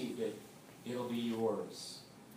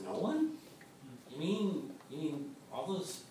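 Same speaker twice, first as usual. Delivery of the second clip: mock disbelief; 2 semitones higher, slower than usual. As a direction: pretend to be stunned by the verse. Preacher reacts to bleak verse.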